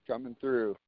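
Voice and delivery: distant, off mic; talking away from the mic; far from mic. Real, not acted. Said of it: "You're off in the dinkies".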